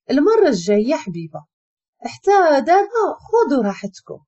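hide the hurt behind sarcasm; wounded mock politeness; bitter sarcasm. A narrator's reading. Wife catches husband, bitter sarcasm.

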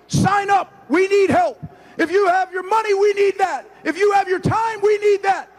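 high, rousing rally finish; halftime pep speech. Real, not acted. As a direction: bring it home to the crowd. Closing rally call to fans.

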